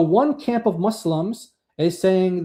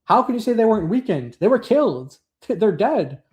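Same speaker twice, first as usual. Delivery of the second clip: raised high in pitch, arguing it's absurd; incredulous objection; 5 semitones higher than usual. Retold or imitated. Host voicing early Muslim scholars' objection, incredulous and pitched up. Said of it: "He's saying".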